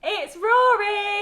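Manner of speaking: big slow stretched-out announcement; drawn-out gleeful reveal for children; broad singsong kids theatre. Acted. Introducing the puppet friend.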